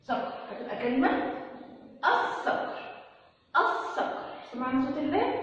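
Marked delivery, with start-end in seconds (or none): 2.1-2.8 "الصقر" with lam silent, doubled emphatic s. Shown as a demonstration. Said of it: "ما سمعناش صوت اللام". 3.6-4.2 "الصقر" with a long s and no l; silent lam. Shown as a demonstration. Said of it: "ما سمعناش صوت اللام".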